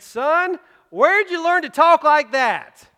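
high, loud startled father; mock alarm at the boy's bad word; shocked dad. Song's dad catches his son cursing, mock shocked and loud.

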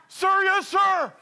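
high, loud recruit response; military shout. Retold or imitated. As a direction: snap back like a recruit. Answering the Marine.

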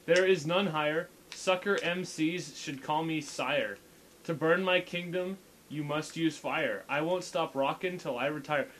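reading lyrics flat and dry; deadpan. Shown as a demonstration. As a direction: recite it with no feeling at all. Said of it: "like, dead-, deadpan voice".

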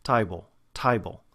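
Cockney "Table" as "tie-bull"; wide, distinct Cockney glide on "table"; Cockney accent. Shown as a demonstration. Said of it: "there's more of a glide between those two".

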